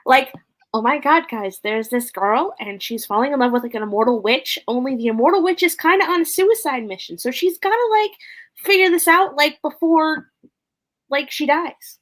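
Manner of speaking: put-on bubbly Valley Girl, pitch climbing high. Co-host describing their book on a prompt, Valley Girl. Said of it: "as if you were a Valley Girl".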